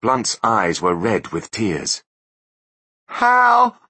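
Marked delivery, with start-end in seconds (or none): 3.0-3.8 very high and loud desperate plea; pleading. A narrator's reading. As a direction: beg for a way out. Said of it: "he pleaded".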